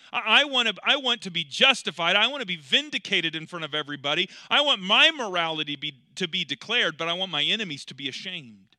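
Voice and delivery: David demanding vindication before everyone, loud and insistent; vengeful demand. Acted. Voicing David's vengeful heart.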